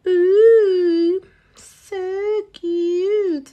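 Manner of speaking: high, gushing coo; delighted squeal. Real, not acted. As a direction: squeal over something cute. Delighted at nail design.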